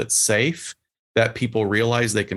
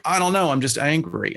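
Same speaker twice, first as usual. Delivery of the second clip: frustrated client; 5 semitones higher than usual. Retold or imitated. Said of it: "They're like".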